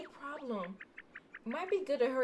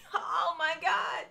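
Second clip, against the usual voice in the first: loud higher gasp of alarm; startled shout; startled cry; 6 semitones higher, 6 dB louder, slower than usual. Real, not acted. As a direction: jump at the sight. Startled by someone appearing.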